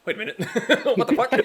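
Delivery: high, loud baffled outburst breaking into laughter; a guard realizing he's been tricked; startled captain. Acted. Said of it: "he's just like".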